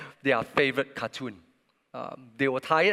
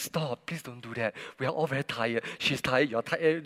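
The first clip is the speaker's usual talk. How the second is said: softer, gentle pleading of a tired mother; kind pleading; 3 semitones lower, 4 dB quieter than usual. Retold or imitated. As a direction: soothe the children softly. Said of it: "was so kind and telling us".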